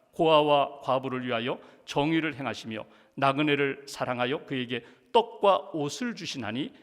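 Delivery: low, measured scripture recitation; scripture reading. Real, not acted. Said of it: "제가 봉독합니다". (낮은 목소리의 성경 봉독)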